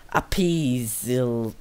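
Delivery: "Appeasel" drawn out very slowly, unsure; unsure pronunciation. Real, not acted. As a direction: sound out "Appeasel" slowly, guessing. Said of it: "don't know".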